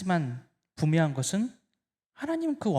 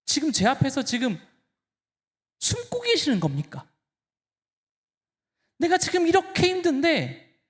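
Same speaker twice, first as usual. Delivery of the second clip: pouring out anger; 7 semitones higher than usual. Pretend. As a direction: demand answers from a silent God. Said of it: "울분을 토하는 겁니다".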